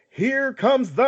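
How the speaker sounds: hype intro. Acted.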